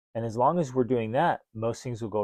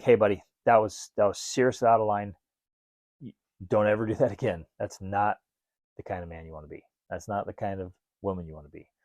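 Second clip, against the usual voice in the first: firm correction; 3 semitones lower than usual. Retold or imitated. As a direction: lay down the line like a firm parent. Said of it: "And then other ones, you're like".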